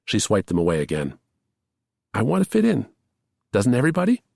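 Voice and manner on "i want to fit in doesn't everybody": much higher, tight with tears; pleading through tears; tearful plea. A narrator's reading. Lamb confessing to Charlie while crying, much higher. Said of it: "through the tears".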